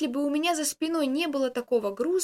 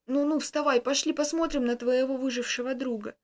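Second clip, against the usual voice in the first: smiling. Acted. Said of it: "с улыбкой произнесла старушка".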